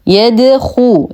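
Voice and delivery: يدخو with a fully rounded u on a heavy خ; full heavy خُ. Shown as a demonstration. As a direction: chant يدخو slowly, completing the u after emphatic خ. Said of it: "نتم ضمة الخاء مع التفخيم". (إتمام ضمة الخاء المفخمة في يدخو)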